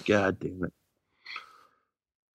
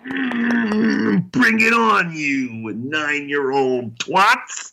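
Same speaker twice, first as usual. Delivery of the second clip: taunting; 6 semitones higher, much slower than usual. Acted. Taunting the opponents.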